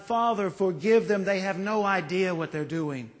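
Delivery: pleading for those who hurt him. Retold or imitated. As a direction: beg on behalf of others. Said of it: "pleading for us".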